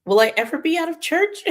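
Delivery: high whiny plea to heaven; mock despair. Teenage self wondering if church ever ends, high and whiny. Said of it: "I was like".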